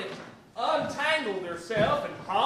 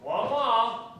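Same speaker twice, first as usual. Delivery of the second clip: muffled wah wah talk. Acted. Phone voice.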